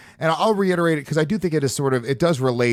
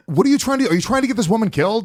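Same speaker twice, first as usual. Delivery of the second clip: incredulous; 7 semitones higher, faster than usual. Retold or imitated. Reacting to the video, high incredulous outburst. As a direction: ask it like you can't believe it. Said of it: "And I'm going, like".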